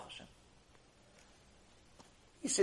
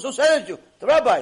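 high, loud and emphatic; acted insistent exchange; 7 semitones higher, 9 dB louder than usual. Man asked who sent him for money, loud exasperated exchange.

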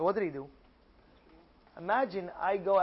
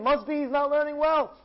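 raised, puzzled reasoning; working it out aloud; musing to himself; 7 semitones higher, 4 dB louder than usual. Acted. Rabbi Abba puzzling over Yossi's greed, raised pitch.

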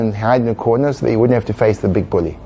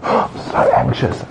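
anxious; slower than usual. Shown as a demonstration. Acting out being taken over.

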